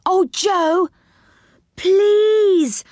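high, eager begging; high-pitched insistent plea; pleading. Acted. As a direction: beg like a child, drawing out each please. Rick begs Joe.

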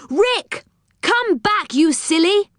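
high-pitched call after someone; urgent high cry to come back. Acted. Calling after someone who ran off.

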